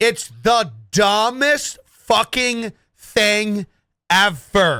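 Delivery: very slow, deliberate, clear, each word spaced. A streamer telling viewers what he thinks, very slow and clear. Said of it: "I'm going to say this very slow and clear".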